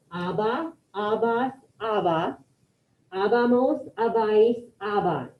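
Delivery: quiet, careful Spanish endings, each one clearly spoken; model pronunciation. Shown as a demonstration. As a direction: say the endings slowly for learners to copy. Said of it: "I'm just gonna say 'em".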